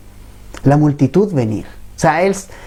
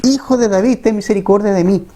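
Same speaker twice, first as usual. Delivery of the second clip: mild retold plea; 4 semitones higher than usual. Blind man crying out to Jesus by the road, a higher pleading cry. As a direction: lift the voice high and beg for mercy. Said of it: "O sea, él gritó".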